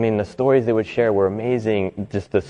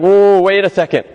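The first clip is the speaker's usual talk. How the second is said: put-on eager inner child; 7 semitones higher, 6 dB louder than usual. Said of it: "the inside part of me, the child".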